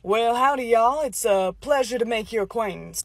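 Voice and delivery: a folksy Texas accent, lightly put on. New recruit greets the squad in a Texas accent. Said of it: "I am from Texas".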